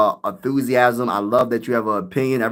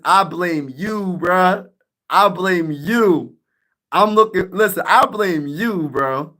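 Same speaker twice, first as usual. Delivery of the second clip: laughing mock blame; 7 semitones higher, slower than usual. Real, not acted. Streamer laughing at viewer Big Grizz, mock blaming him. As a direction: blame him while you can't stop laughing. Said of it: "That is the funniest comment".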